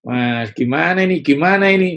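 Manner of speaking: loud, high fretful grumbling; mock grumbling 'waduh, aduh'; grumbling complaint. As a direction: whine like a worried grumbler. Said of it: "itu bersungut-sungut".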